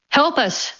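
a high plea, pitched well up; the wounded girl's guardian calls down the hallway, a high cry. Acted. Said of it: "the woman cried".

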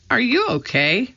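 high, gentle question to a pet; high-pitched, fussing concern; tender concern. A narrator's reading. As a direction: ask a tiny pet fondly. Annie checking on her mouse.

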